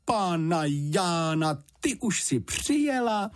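startled motherly housekeeper; blurted in alarm. A narrator's reading. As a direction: gasp it out, startled and high. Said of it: "vyhrkla zděšeně".

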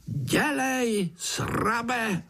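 high wheezing fly taunt. A narrator's reading. Fly groom taunts Pája, high wheezing. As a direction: hiss the taunt like a tiny fly. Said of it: "sýpal mušák".

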